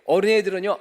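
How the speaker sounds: normal talking voice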